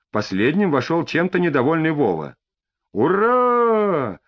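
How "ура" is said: shouting. A narrator's reading. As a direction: yell it out in triumph. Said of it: "закричал Бобриков".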